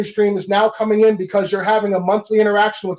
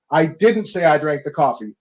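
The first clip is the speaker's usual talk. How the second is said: "didn't" punched, rest falling; stress on DIDN'T; 5 semitones lower than usual. Shown as a demonstration. Coach showing a new meaning, stress on "didn't". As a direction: deny it by leaning on "didn't". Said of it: "you can literally say it seven different ways".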